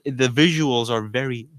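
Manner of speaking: slow, drawn-out announcer voice; fighting game announcer. Acted. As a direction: announce it like a hype arena host. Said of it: "make a stupid voice".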